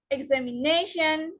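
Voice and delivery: examiNAtion, weight on NA; stress before suffix. Shown as a demonstration. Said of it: "the syllable just before the suffix".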